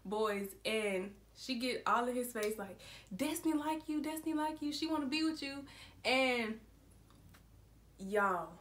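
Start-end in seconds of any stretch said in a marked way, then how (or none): 3.2-5.7 teasing singsong. Retold or imitated. Girl teasing boy in his face.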